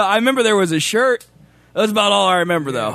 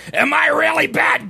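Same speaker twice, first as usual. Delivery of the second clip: Gilbert Gottfried impression; 5 semitones higher than usual. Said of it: "Gilbert Gottfried".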